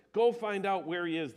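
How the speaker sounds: king's order. A narrator's reading. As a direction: bark the order at your officers. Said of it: "the king ordered".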